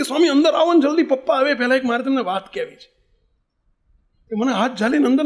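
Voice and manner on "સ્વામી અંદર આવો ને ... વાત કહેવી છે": put-on child's voice. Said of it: "મને કે".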